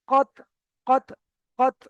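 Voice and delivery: কত with tongue sprung off the final t; touch and part at once on the end of কত; qalqalah echo. Shown as a demonstration. Teacher shows students the release, কত with bounced final t. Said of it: "এমন ভাবে আলাদা করতে হবে".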